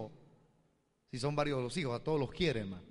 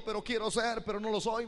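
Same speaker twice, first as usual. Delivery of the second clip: higher, earnest mother's voice; 7 semitones higher than usual. Retold or imitated. Mother confessing to the pastor, higher and earnest. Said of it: "me dijo".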